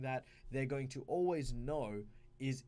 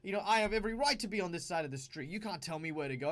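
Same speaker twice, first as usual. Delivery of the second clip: defiant player; 3 semitones higher, 5 dB louder than usual. Retold or imitated. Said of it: "you could have your guy go".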